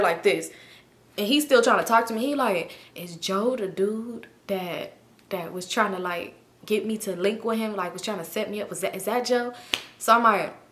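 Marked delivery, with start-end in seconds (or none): 2.9-9.5 imitated tentative question. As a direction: feel out the question, imitating him quietly.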